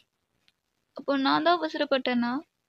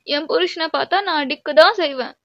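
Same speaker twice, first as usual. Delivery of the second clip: louder, possessive insistence; defiant retort; 3 semitones higher, 5 dB louder than usual. Acted. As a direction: stand your ground, voice raised. (பிடிவாதமான கோபம்)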